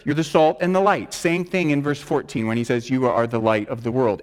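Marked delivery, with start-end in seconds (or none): 2.9-4.2 "You" stressed with a falling tune; emphatic you. Shown as a demonstration. Preacher quoting verse fourteen, stressing "You". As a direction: land on "You" firmly.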